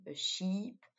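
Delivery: sheep with a drawn-out ee vowel; long I in sheep. Shown as a demonstration. Teacher showing French learners the long I in sheep. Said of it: "avec un long I".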